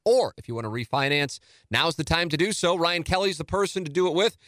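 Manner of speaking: lively announcer read of the sponsor. Acted. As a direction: sell the home loan sponsor like a host-read spot.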